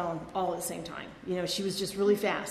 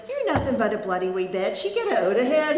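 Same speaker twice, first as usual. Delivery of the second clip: Scottish mum; 6 dB louder than usual. Retold or imitated. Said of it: "she had a really thick Scottish accent".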